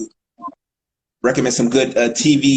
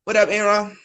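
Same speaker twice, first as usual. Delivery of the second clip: put-on D C accent; 7 semitones higher than usual. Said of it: "That's my D C accent".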